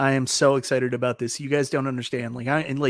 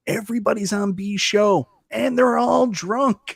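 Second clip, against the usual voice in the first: excited mock gossip; 8 semitones higher, 5 dB louder, slower than usual. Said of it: "they were like".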